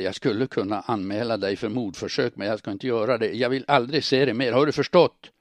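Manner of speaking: rising to a loud, high shout; from firm to shouting; building anger. Acted. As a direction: build to a furious ultimatum. Man ends affair in anger.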